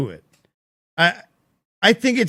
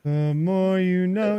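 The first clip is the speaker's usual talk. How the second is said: slow NBC the more you know with a rising know; NBC soundbite; 2 semitones higher, slower than usual. Retold or imitated. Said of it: "N B C soundbite".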